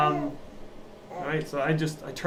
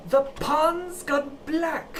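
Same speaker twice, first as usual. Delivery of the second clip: the pond's gone black, stretched slowly and pitched up; very slow, higher, spelled out for a deaf listener; 12 semitones higher, much slower than usual. Acted. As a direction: drag every word out for someone hard of hearing. Repeats line louder for deaf lady.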